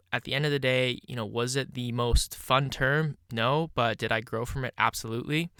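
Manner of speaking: blocked nose from allergies; stuffy nose. Real, not acted. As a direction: talk through a stuffed-up nose. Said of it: "I apologize if I'm sounding a little bit, uh, stuffy".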